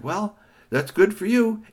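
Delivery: villain gloats, slow and loud; sly taunt. Acted. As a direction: drag it out, smug and sneaky. Villain taunts before pushing.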